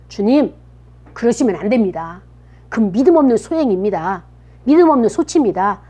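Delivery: acted objection, pressing harder as it goes; mild protest. Peter holding Jesus back from death, protesting. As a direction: object earnestly, stressing the lack of faith. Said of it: "항변하는 거예요".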